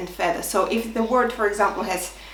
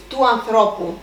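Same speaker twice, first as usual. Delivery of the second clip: του ανθρώπου with the stress moved onto ΘΡΩ; tone dropping; 3 dB louder than usual. Shown as a demonstration. Teacher reintroducing the possessive to learners, ανθρώπου stressed on ΘΡΩ. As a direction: put the weight on ΘΡΩ in ανθρώπου. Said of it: "We talked about the tone dropping".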